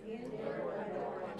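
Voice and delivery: "Inward adorning" whispered, very soft; a hushed repeat for the church to say; whispered echo. Shown as a demonstration. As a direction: breathe the words back softly. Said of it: "Everybody say that".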